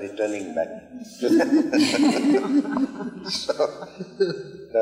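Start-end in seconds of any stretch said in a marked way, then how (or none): 1.5-3.2 a sudden high giggle; real high laugh at the joke; high burst of laughter. Real, not acted. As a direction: break into delighted laughter. Teller laughs at own story.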